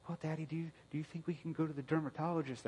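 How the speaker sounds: a hint of a hurting child saying she hates herself; daughter's voice.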